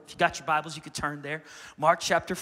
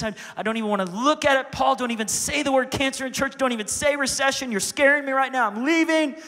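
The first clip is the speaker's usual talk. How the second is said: a touch higher, fretful denial; mock fearful; 4 semitones higher, 4 dB louder than usual. A scared churchgoer begs not to hear the word cancer, fretfully. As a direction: cover your ears and refuse to hear it. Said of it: "so afraid".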